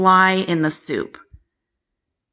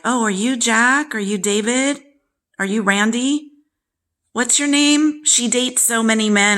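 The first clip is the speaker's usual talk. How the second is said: sarcastic sing-song questions, pitched higher; mocking father; 5 semitones higher than usual. Father mocking his daughter in front of her boyfriend, sarcastic. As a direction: tease like a snide dad pretending confusion.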